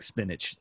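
"Spinach" as "spin-itch", quiet and understated; wife's pronunciation. Retold or imitated. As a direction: say "Spinach" softly with a ch ending. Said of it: "she was like".

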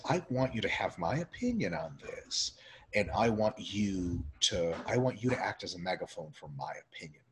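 a lightly voiced entitled critic; mock whiny demand. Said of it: "When people say".

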